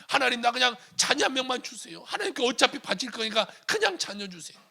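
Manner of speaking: high, insistent acted plea; pleading prayer. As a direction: beg God for just one child. Acted desperate prayer for a child. (높은 목소리로 조르듯 간절하게)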